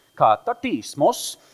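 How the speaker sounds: loud, mock Swedish accent on katartismos.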